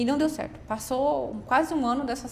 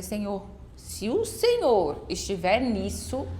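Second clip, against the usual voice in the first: slow prayer; much slower than usual. Retold or imitated. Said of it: "Eu falei".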